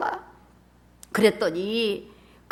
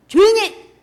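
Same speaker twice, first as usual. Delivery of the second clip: loud hush; 11 semitones higher, 13 dB louder, slower than usual. Acted. Crowd hushing the blind men.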